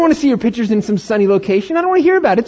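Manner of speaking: mock envy. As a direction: play up the petty envy. Envious rant at Facebook posts.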